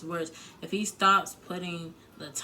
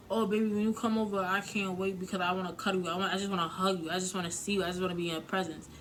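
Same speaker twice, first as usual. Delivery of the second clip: put-on eager loving boyfriend; 2 semitones higher, faster than usual. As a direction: gush impatiently like a doting boyfriend, lightly hammed-up. Acts out an ideal loving boyfriend.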